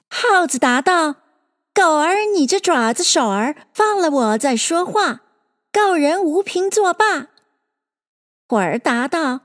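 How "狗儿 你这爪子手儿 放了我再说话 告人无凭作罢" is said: high, swinging rhyme recital; lilting, raised storytelling verse; verse recitation. Acted. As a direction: recite it like a rhyming tale. Mouse's reply in the verse.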